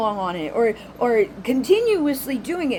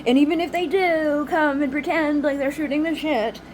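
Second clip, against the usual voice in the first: normal talking voice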